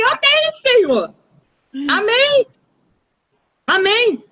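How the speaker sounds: high, elated amens to the Lord; joyful amen. Retold or imitated. Telling the Lord amen, high and overjoyed. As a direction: burst out in glad agreement.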